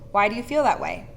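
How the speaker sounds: even, gentle question without blame; non-accusatory tone. Shown as a demonstration. Asking a team member gently, in a non-accusatory tone. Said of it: "a non-accusatory tone".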